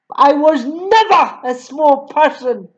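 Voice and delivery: a mild stern snap; snapped. Acted. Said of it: "she snapped".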